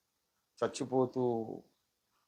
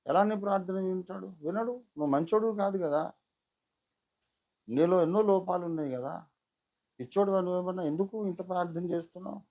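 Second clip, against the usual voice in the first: higher, mocking tempter; Satan taunting; 3 semitones higher than usual. Preacher imitating Satan mocking his prayers, sneering. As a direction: needle him with sneering doubt. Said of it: "అని సైతాన్ నన్ను బహుగా శోధిస్తున్నాడు".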